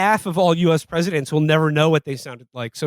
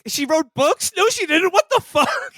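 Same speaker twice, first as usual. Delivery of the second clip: tearful TikTok rant; 13 semitones higher, slower than usual. Retold or imitated. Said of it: "she's like".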